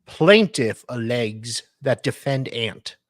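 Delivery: dramatic legal reading. Acted. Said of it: "our dramatic reader".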